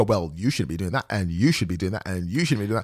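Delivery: mock nagging. Mocking finger-pointing people.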